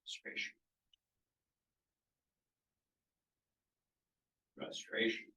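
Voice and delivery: whispered Frustration; whispered word. Shown as a demonstration. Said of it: "how you interpret this word".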